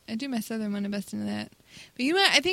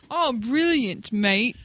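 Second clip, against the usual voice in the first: drawn-out British exclamation; British accent; much slower than usual. Acted. Contestant showing what Brits say, British accent. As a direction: stretch it out slowly in a British accent. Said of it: "They say stuff like".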